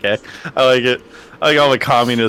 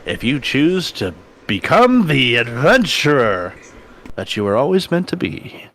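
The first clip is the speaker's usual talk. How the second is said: sales pitch. Acted. Next Life sales pitch.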